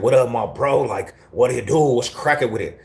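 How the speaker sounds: light East Denver slang greeting to a homie. Retold or imitated. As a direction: casually toss out an East Denver hello. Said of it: "That's how we talked in the P Js".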